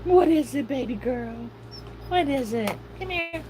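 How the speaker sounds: dog owner sweet-talking her pet up high. Real, not acted. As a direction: coo it up high to a puppy. Baby talk to her dog.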